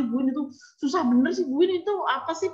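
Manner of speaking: mock-exasperated complaint, pitch rising; mengeluh bingung. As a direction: imitate a teacher whining for help. Acting out a teacher baffled by technology. (pura-pura mengeluh kebingungan)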